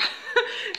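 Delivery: bright burst of laughter; short laugh. Real, not acted. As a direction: laugh at your own word. Laughs at own made-up word.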